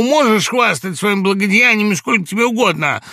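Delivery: high, loud, heated protest; angry outburst. A narrator's reading. Laevsky lashing out at his friend, high and loud. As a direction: hurl it at him, offended.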